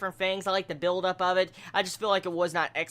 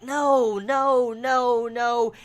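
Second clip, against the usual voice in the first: rising, louder string of noes; emphatic no; 5 semitones higher, 5 dB louder, much slower than usual. Retold or imitated. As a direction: shake it off with repeated noes. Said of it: "I'm like".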